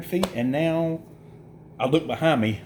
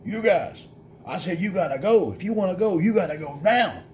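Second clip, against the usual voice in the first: higher, raised mock yell at them across the road; retold yell; 6 semitones higher than usual. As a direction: call out an urgent order to clear off. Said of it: "He yells at us across the road".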